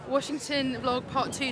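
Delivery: loud, high, drawn-out cry of the name; real excitement. Real, not acted. Friend hears John upgraded his flight, real excitement. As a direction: burst out with delighted excitement. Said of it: "I'm so excited".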